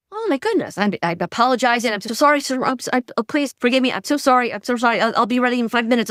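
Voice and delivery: high, rushed, panicked apologies; flustered apology. Retold or imitated. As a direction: gush sorry like you just overslept.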